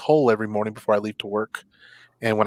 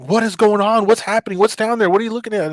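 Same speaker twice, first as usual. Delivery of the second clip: high-pitched rapid-fire questions from viewers; curious onlookers; 8 semitones higher than usual. Retold or imitated. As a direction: imitate nosy viewers, pitched up. Voicing onlookers of her livestream.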